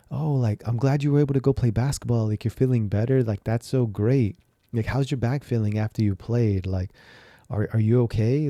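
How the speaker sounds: mock cheerful, caring wife; a touch of cheerful wife; supportive wife. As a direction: imitate a glad, caring wife welcoming him home. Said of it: "impersonation of what I wanted from my wife".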